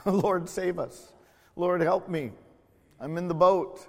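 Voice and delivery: a believer in the storm crying to the Lord; crying out for help. Acted. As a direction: call out to the Lord from a sinking boat. Acted cry in the storm.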